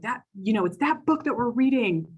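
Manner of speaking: a hint of an upset kid; student explaining why she ran away, mildly childlike; imitating the child. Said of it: "And so she said".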